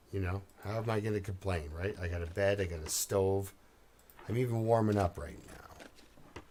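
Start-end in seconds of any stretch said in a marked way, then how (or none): 4.3-6.4 whispered aside; breathy hushed whisper. Real, not acted.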